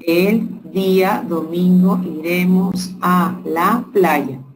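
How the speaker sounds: slow, each word set apart for counting; walk through the sentence slowly, one word at a time; counting the words aloud slowly. Shown as a demonstration.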